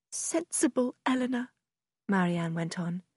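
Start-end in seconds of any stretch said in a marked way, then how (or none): 0.1-1.5 lightly voiced distressed sister, raised pitch. A narrator's reading.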